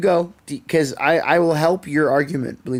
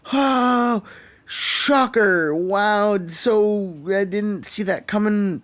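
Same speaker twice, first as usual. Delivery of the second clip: higher, dry mock surprise; sarcastic; 4 semitones higher, much slower than usual. Gamer recalls father's death twist, sarcastic mock surprise. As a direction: fake astonishment, sarcasm dripping. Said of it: "And I was like".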